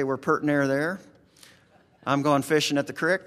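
lightly rustic hayseed accent, low and easy; a touch of country hayseed dialect, creek said as "crick". Shown as a demonstration. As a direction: show off your own hayseed accent. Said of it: "You talk like a hayseed".

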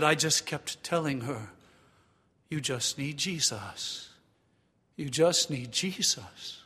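lightly imitated South African accent, slow; a hint of a friend's South African accent. Preacher quoting his student friend's advice, light South African accent. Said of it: "rich voice and his accent".

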